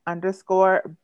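light, joking French accent. Shown as a demonstration. Poet reads out jeweler's handle, joking French accent. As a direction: try a little French on the name. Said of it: "That was my French accent".

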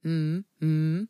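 usual speaking voice

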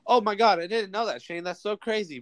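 mock amazement. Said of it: "You're supposed to be like".

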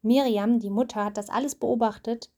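steady storybook reading voice; reading to a child. A narrator's reading. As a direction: read the story aloud to your child. Mother reads Bible story aloud.

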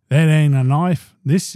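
lightly done Australian outback voice; Crocodile Dundee Australian accent. Pretend. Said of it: "think about Crocodile Dundee".

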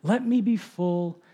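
slow, measured petition; reverent prayer reading. Acted. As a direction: pray it slowly and with restraint. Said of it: "this is how it goes".

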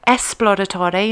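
esploratore opening on "es", no x; Italian pronunciation. Shown as a demonstration. Host showing the Italian spelling difference, esploratore with "es" up front. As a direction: say esploratore with s for x, final e voiced. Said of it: "instead of the X at the front".

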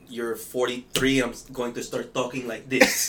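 lightly put-on Filipino uncle accent; put-on older-uncle accent. Shown as a demonstration. Guest jokes about growing an accent when older, put-on uncle accent. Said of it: "to grow an accent".

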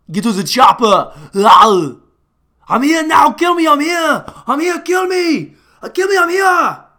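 high, loud hammed-up creature pleading kill me; mock movie monster. Comedian mocking the Predator dog scene, hammed-up high yell. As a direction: shriek it out like a cornered movie alien.

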